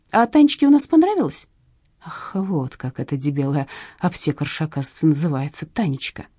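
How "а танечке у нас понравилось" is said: cooing sweetly. A narrator's reading. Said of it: "проворковала она".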